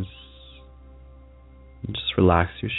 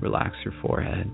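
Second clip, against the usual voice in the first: whisper; 6 dB quieter than usual. Acted. Meditation cue, breathy.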